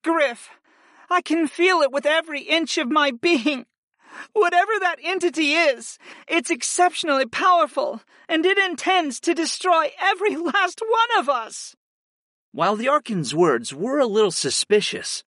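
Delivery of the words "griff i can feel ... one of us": high-voiced, earnest warning; sincere. A narrator's reading. Archon warns Griff of a destructive entity, sincere. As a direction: give a sincere warning in a much higher voice. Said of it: "her tone was sincere".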